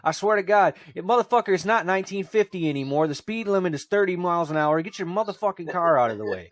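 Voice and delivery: hammed-up road rage tirade; retold rant. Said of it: "I was like".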